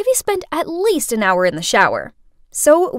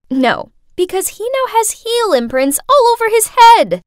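grinning; 7 semitones higher, 4 dB louder than usual. A narrator's reading. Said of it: "Hazel grinned as she said".

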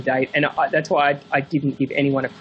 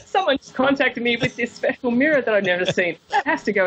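high, excited retold pitch for one more item; eager insistence; 7 semitones higher than usual. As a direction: sell the new find with childlike excitement. Author retells his excited insistence.

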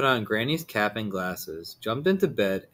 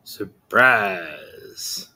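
cried out; 3 semitones lower, 4 dB louder than usual. Acted. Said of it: "cried the wolf".

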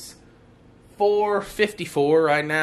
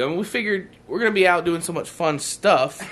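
dry sarcastic delivery; 4 semitones higher than usual. Acted. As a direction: say it like you don't mean it. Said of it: "He's being sarcastic".

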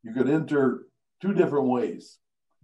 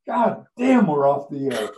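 alarmed curse; 4 dB louder than usual. Retold or imitated. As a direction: swear in sudden panic. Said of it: "And he says".

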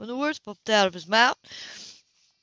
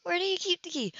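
suppressed laugh; 10 semitones higher, 4 dB quieter than usual. A narrator's reading. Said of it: "Her lips quivered".

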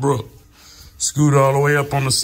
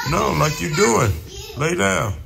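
shouting; 5 semitones higher than usual. Real, not acted. Correcting a kid on the bench.

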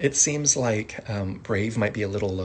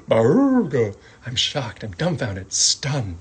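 mock shocked; 2 semitones higher, 6 dB louder, much slower than usual. Shown as a demonstration. Acting out shock.

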